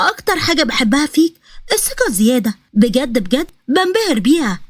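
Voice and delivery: a hint of a haughty princess; lightly voiced mocking princess. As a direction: flatter him scornfully. Narrator voices Nahr mocking Iyad.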